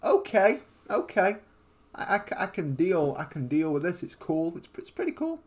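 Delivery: retold nervous acceptance, fading away; talking oneself into it. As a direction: stammer through a retold attempt to stay cool. Retells nervous reaction to first voice call.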